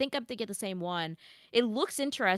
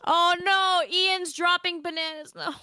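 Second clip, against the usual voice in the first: alarmed; 9 semitones higher, 4 dB louder than usual. Real, not acted. Cat knocking bananas off.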